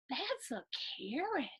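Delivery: breathless whispered discovery. Acted. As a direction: hush it like a secret find. Gasped discovery of a carrot.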